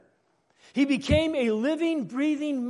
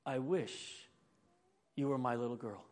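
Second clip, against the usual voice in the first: soft, hushed whisper, much quieter; 11 semitones lower, 12 dB quieter than usual. Retold or imitated. Teacher whispering to a little girl during hearing test, soft whisper. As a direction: breathe it gently like a secret. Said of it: "Missus Leonard said in a whisper".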